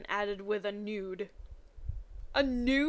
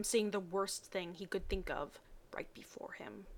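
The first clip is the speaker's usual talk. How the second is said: hushed suspense; 2 semitones lower, 9 dB quieter than usual. A narrator's reading. Reader whispering suspense.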